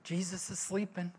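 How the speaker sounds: breathy hush, voice dropped right down; hushed whisper. Retold or imitated. Disciples hushing each other beside sleeping Jesus, whispering. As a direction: shush the others so he can sleep. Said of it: "the disciples are probably like".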